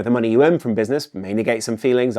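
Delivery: usual speaking voice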